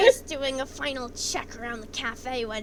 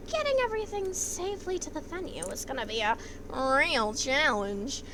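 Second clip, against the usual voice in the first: story narration. A narrator's reading. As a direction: narrate the comic scene evenly.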